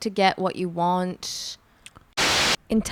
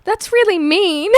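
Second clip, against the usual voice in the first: high, loud retort through laughter; laughing comeback; 12 semitones higher, 5 dB louder than usual. Retold or imitated. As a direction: deliver a feeble comeback, laughing, voice pitched up. Retelling weak comeback while laughing.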